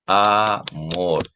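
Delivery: amor slowly parted into a and mor; teacher's syllable-by-syllable amor; split into syllables. Shown as a demonstration. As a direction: say amor as two separate beats, a, then mor. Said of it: "En esta tiene dos sílabas".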